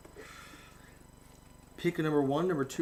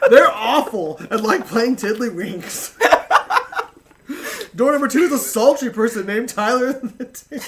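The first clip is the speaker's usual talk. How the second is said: laughing host voice; 3 semitones higher, 4 dB louder than usual. Acted. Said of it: "So I have to use the announcer voice".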